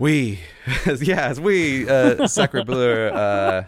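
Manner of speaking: slow, hammed-up French accent; exaggerated French cliché voice; mock French accent. Joking about beret-wearing French retreat.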